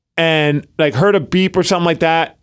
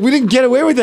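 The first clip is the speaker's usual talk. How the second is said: high panicked self-quote; 9 semitones higher, much faster than usual. Retold or imitated. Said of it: "And we're like".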